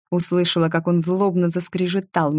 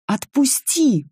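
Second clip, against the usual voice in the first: scream; 9 semitones higher, slower than usual. A narrator's reading. Nika breaking from Richard's grip: desperate scream. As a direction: tear free with a desperate cry. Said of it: "закричала я и рванулась".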